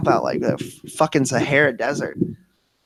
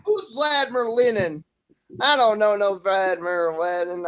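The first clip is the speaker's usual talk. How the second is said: hammed-up hick, higher; mock hillbilly; 5 semitones higher than usual. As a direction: play the clueless yokel in jest. Mocking hillbilly bit.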